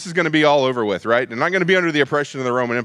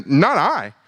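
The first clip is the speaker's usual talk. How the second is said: mildly voiced worried disciples, rising higher at the end; distressed denial; 6 semitones higher than usual. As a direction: protest your innocence, getting more anxious. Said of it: "Deeply distressed," ... worried".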